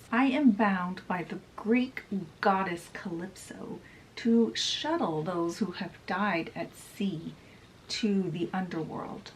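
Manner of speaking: lightly voiced ghostly sea captain, breathy whisper; a faint whispered hint of the ghost captain; Davy Jones. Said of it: "Davy Jones says".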